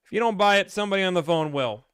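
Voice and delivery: high, lazy swagger of a salesman; lightly voiced smug dealer; cocky salesman. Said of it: "you could just be like".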